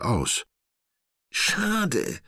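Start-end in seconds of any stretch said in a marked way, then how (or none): 1.3-2.2 much higher, disappointed sigh of a tiny monkey; high, mopey cartoon sigh; little monkey sighing. A narrator's reading. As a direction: let it droop like a let-down little ape. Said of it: "seufzt das Äffchen".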